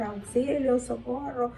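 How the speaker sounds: mildly acted plea for rescue; mock cry for help. Terrified disciples crying out at sea, imitated as a mild mock yell. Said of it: "comenzaron a gritar".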